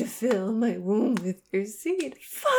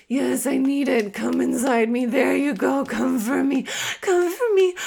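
urgent pleading; 3 semitones higher, 4 dB louder than usual. Acted. Climax pleading.

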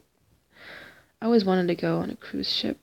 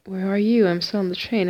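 loud call; 6 dB louder than usual. Retold or imitated. Friend on the phone, retold.

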